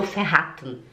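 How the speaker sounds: verraten rushed with a short A; too quick verraten. Shown as a demonstration. Teacher shows what not to say, quick short-vowel verraten. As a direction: hurry through verraten without lengthening. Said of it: "Você não pode falar".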